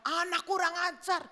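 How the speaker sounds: mock-angry father's outburst; indignant, acted scolding. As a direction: play an offended dad fuming. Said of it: "dia marah".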